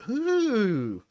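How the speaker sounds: high, drawn-out impressed ooh. Retold or imitated. People swooning over a posh voice, impressed ooh. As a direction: coo like someone swept off their feet. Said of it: "make people go".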